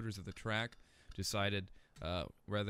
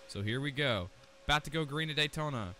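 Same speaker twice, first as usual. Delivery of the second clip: rising excitement; 4 semitones higher than usual. Real, not acted. Race start, going green.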